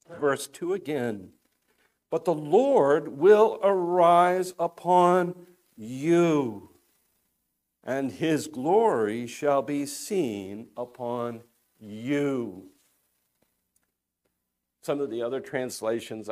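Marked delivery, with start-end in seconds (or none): 2.1-12.7 slow scripture reading. Acted. Preacher reads promise slowly.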